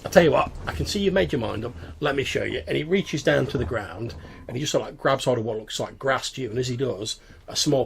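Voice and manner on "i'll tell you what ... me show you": goblin voice. Acted. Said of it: "He's like".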